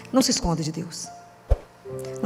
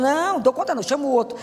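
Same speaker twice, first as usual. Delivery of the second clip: imitated excuse-maker; 5 semitones higher than usual. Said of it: "vocês falam".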